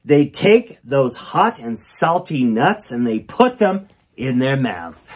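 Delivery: sing-song storybook reading; reading to children. Acted. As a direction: read it like a kids' rhyme book. Reads the book aloud.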